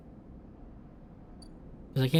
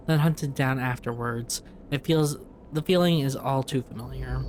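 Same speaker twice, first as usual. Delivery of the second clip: measured, even storytelling read; story narration. Acted. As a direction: read game text aloud as a narrator. Reads game text aloud.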